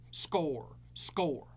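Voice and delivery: "score, score" whispered, falling; whispered trash talk. Acted. Teasing the six-six caller, whispered "score, score". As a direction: breathe the repeated "score" as a taunt.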